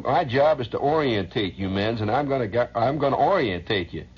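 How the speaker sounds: mock sergeant orientating his men; first sergeant. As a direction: bark it at the new recruits. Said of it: "first sergeant who used to talk like that".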